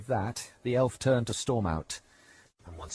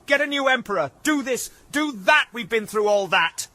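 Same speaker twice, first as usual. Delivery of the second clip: exasperated rant, higher and louder; sick of being bossed around; fed-up outburst; 11 semitones higher, 7 dB louder than usual. Acted. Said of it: "she ranted".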